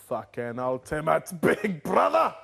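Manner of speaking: slow, drawn-out mock cheer; mocking Jason. Friend voicing Jason's sarcastic big brother cheer, slow. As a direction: stretch it like a sarcastic announcement. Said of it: "He'd come in and be like".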